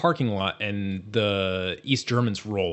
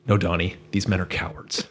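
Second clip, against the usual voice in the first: reassuring Walter; 4 semitones lower than usual. Retold or imitated. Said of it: "Walter just goes".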